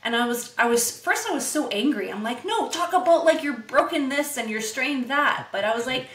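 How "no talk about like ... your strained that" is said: mocking whine. Mock-whiny quote of angry self.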